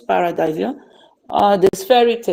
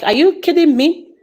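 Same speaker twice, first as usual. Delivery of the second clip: indignant, mildly raised retort; retold anger; 4 semitones higher than usual. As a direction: imitate your own angry disbelief, a little higher. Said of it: "I was so angry".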